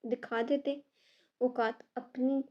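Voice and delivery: अपनी pressed hard, slow; अपनी said slow and weighted; stress on अपनी. Acted. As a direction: lean on अपनी, slowly. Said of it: "अपनी पर जोर देते हुए बोली".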